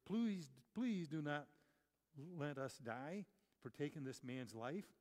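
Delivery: pleading. Acted. Sailors pleading with the Lord.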